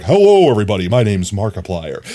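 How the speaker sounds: lightly deepened smooth intro; a hint of a smooth YouTuber intro; Markiplier deep voice. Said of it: "deep and bassy and smooth and sensual".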